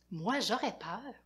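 ordinary delivery, nothing marked

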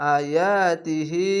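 আয়াতিহি with each long vowel held one alif, slow; one alif stretch. Shown as a demonstration. Teacher demonstrates the one-alif stretch on আয়াতিহি. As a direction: draw আয়াতিহি out evenly. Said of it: "এক এক আলিফ টেনে টেনে পড়বেন".

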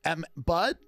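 sway the jury like a slick lawyer; a hammed-up closing argument, slowing for effect; mock defense attorney. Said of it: "he's acting like the attorney of Diddy".

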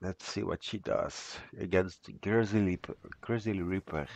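stuffy blocked-nose voice. Real, not acted. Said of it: "I can't breathe through my nose".

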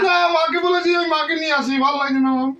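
whiny crying. Acted. Childish husband whining to go to mother.

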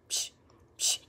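two short hushed "psh" splashes; imitated water splash. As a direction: mimic water being flicked, twice.

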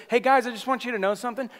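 high, quick, mock-cheerful greeting; happy-happy preacher. Preacher imagining Paul addressing the church, mock happy-happy. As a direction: imitate an overly happy preacher chirping hello. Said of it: "he wasn't, like, happy, happy".

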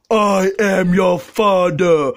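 slow dramatic villain reveal; Darth Vader voice. Acted. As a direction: say it slowly and heavily. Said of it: "Darth Vader quote".

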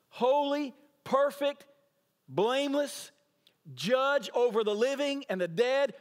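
each word hit loud and high; holy, perfect, blameless ringing out; rising proclamation. Acted. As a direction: preach it at full force. Preacher building on Christ's holiness.

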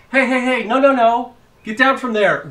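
loud, high parental yell; shouting at child. Pretend. Dad at the park yelling at his climbing daughter. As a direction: stop the kid climbing, loud and sharp.

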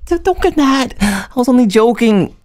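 high, cutesy quick apology; sweet backpedal. Acted. Girl reassuring her friend she was only joking, high and cute. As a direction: take back the joke sweetly.

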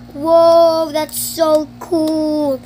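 loud whoa then slow cool; amazed whoa. Real, not acted. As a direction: sound truly wowed. Amazed at case.

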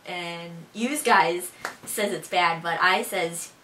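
slow Buffalonian demo sentence; Buffalo accent. Shown as a demonstration. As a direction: show off a Buffalo accent, taking it slowly. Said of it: "Now for some sentences for you guys".

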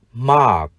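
"mark" with long ah and final k; model pronunciation. Shown as a demonstration. Teacher shows how to read mark, "mark" as long ah plus k. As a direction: say "mark" without a heard r, releasing the k. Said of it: "chúng ta đọc là".

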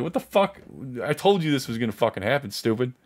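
retold angry I-told-you-so; mad at them. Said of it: "I'm, I'm mad at them".

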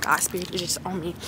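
soft, relieved and calm; settled and peaceful. Real, not acted. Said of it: "I feel really calm".

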